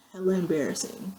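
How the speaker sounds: embarrassed whisper aside. Real, not acted. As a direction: whisper it like a confession. Admitting embarrassment.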